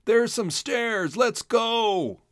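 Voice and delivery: high, loud urgent call; rally the others to chase; yelled. A narrator's reading. Mink yells to his brothers, high and urgent. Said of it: "another yelled".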